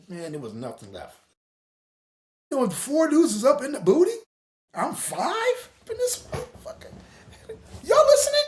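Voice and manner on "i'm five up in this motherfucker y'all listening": high howl at the audience; shouting to crowd. Real, not acted. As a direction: cry out at the crowd. Calling out to the audience.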